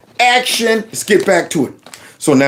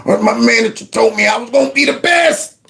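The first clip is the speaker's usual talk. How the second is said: mock tearful boast; 3 semitones higher than usual. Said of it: "he's talking about his manager told him".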